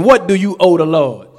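too fast. Shown as a demonstration. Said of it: "I said it too fast".

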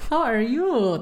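imitating dad. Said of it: "That's how he talks".

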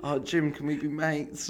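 slow pleading fanboy plea; mock a starstruck fan begging for friendship; hammed-up adoring fan; gushing fanboy. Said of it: "You were like".

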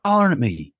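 father imitating his daughter complaining; child's voice. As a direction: voice a small daughter upset at being yelled at. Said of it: "And she said".

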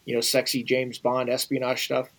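put-on a light thick Russian accent. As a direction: slip into a faint Russian accent when quoting. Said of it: "he says with his thick Russian accent".

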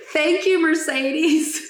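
high-pitched mock thank-you; lightly acted, lifted voice between laughs; imitating Oscar. Retelling Oscar reacting to the crash, high imitation. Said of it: "And Oscar goes".

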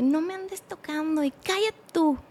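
high-pitched, restrained mock scolding; retold angry rebuff. Couple quarrelling after the blow, high restrained rebuff. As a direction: act out a quarrel without volume.

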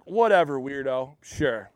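low, dismissive sarcasm trailing off softly; mock a sarcastic brush-off, dropping away. Peter brushing off Jesus's request, sarcastic. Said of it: "Very sarcastically".

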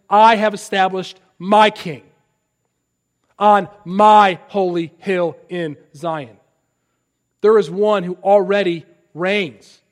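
ringing pulpit decree; loud proclamation. Real, not acted. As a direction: declare it with authority. Preacher proclaims God's decree.

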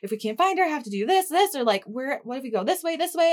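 frantic planning, acted out lightly; retold panic. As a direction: retell it in mild panic. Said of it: "I was, like, terrified".

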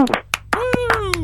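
a high, whooping cheer; joyful high cheer; excited woo. Real, not acted. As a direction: whoop along with the caller in celebration. Celebrating a correct caller guess.

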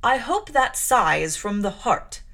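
stern clergyman. Acted. Clergyman warning the small girl of death, grave and loud. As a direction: lay down doom like a strict preacher.

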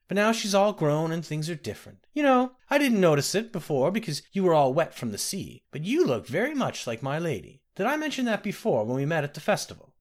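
a hint of a kindly old woman; old nursemaid. The speaker voiced old nursemaid.

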